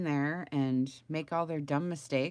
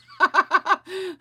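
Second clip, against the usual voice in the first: loud high laugh; 13 semitones higher, 10 dB louder than usual. Real, not acted. Laughing at her story to the viewers. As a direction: burst out in a high cackle.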